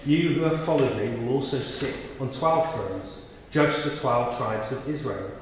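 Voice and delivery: measured, solemn Bible reading; scripture reading. A narrator's reading. Reads the gospel aloud.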